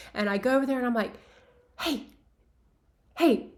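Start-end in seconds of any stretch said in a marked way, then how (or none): 1.8-3.5 raised, higher voice calling down the aisle. Retold or imitated. Staffer calls out to a man crouching in the aisles, raised voice. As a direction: call out to find what he needs. She calls out to wandering Chevy Chase.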